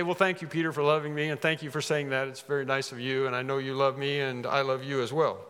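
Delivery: imagine a placid, lightly soothing answer; mock gentle thanks. Preacher voicing what the Lord doesn't say, mock gentle.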